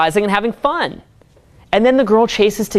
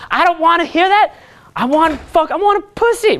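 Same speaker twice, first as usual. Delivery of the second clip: higher, whining mock voice; mocking a whiny student; 8 semitones higher than usual. Coach mocking a student who won't hear the truth, high and whiny. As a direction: whine it like a spoiled kid refusing to listen. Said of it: "some guys will respond, they'll say".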